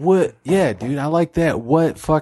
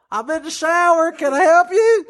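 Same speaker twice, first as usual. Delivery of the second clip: redneck God; 13 semitones higher than usual. Acted. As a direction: call out high like a redneck. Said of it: "It's some redneck".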